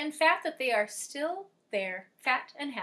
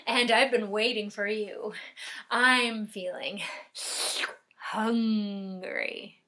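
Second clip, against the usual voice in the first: hungry troll; slower than usual. Acted. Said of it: "said the troll".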